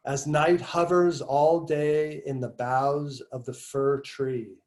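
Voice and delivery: slow, measured recitation with pauses between phrases; essay reading. Acted. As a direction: read the passage out deliberately, stretching key words. Resumes reading the passage.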